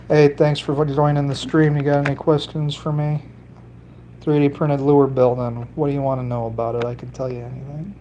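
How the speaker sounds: a hint of an Italian accent, quick and chatty; light Italian accent. Streamer greeting a new viewer, in a light Italian accent. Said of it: "talking with a little bit of an Italian accent".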